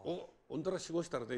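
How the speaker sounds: mild Hiroshima-dialect threat; rough Hiroshima dialect without raising the voice. Shown as a demonstration. Racketeer opening with a threat before making peace, Hiroshima dialect. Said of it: "そうなった時に広島弁が一番いいの".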